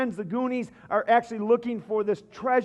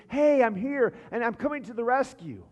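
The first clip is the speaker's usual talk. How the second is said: raised, higher, announcing voice; mock rescuer's call; 4 semitones higher than usual. Preacher voices God as we want him, mild heroic call. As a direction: call out lightly like an arriving rescuer. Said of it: "We want him to be".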